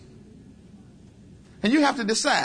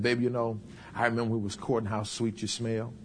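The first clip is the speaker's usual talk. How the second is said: tactful sweet talk; 8 semitones lower, 5 dB quieter than usual. Acted. Wife reminiscing to her husband, low and tender. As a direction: reminisce gently to flatter him. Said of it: "You gotta be very tactful".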